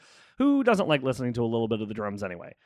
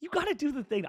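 smiling voice; 10 semitones higher than usual. Real, not acted. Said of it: "I'm smiling so big right now".

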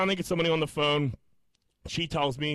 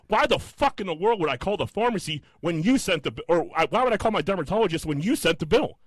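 higher-pitched, indignant challenge; 5 semitones higher than usual. Retold or imitated. Caller challenging the billing rep, retold indignation. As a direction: argue it back, exasperated.

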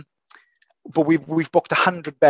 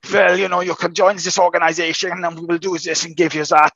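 a light mock German accent; 4 semitones higher than usual. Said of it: "And that's my German accent".

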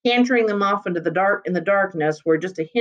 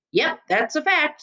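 relieved; 9 semitones higher than usual. A narrator's reading. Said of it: "with evident relief".

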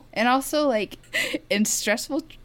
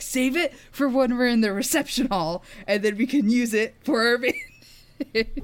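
scheming; 7 semitones higher, 4 dB louder than usual. Retold or imitated. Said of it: "I'm like".

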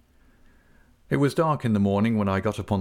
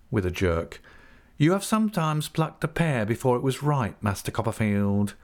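sly humble clerk; 3 semitones higher than usual. Acted. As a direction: purr the hint smugly. Uriah's veiled threat.

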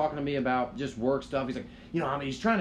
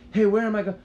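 high, louder mock of a lost girl on the phone; mimicking girl; 8 semitones higher, 8 dB louder, faster than usual. Girl calling from the lobby, high mock voice. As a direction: squeak it like a lost caller.

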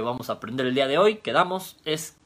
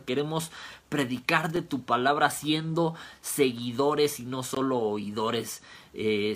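earnest, hushed opening prayer to the Lord; 3 dB quieter than usual. Acted. Pastor praying to God before the lesson, hushed and earnest.

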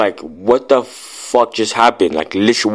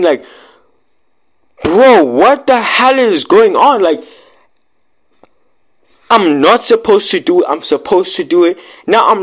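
retold panic; 7 semitones higher, 3 dB louder than usual. Telling friends of a bewildering vision, panicked and high-pitched. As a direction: voice jumps high and loud, pushed and strained. Retelling panic mid-experience.

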